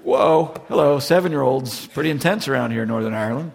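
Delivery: preacher mock-startled by a seven-year-old's kick; mock shock. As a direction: act taken aback, tongue in cheek. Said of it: "It's like".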